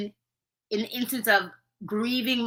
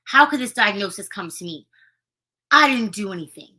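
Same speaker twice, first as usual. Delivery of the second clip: louder, mock exasperated venting; acted anger; 6 dB louder than usual. Shown as a demonstration. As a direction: vent it like a frustrated patient. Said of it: "The feeling was".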